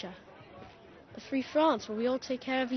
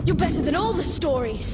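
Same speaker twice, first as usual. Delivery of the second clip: excited; 5 semitones higher, 6 dB louder than usual. Acted. Amazed at the other's skill.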